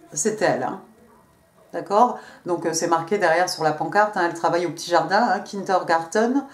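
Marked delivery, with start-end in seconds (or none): 5.4-6.4 German word with a light accent. Shown as a demonstration. Reader shows off schoolroom German, in a light German accent. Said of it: "avec mon accent allemand".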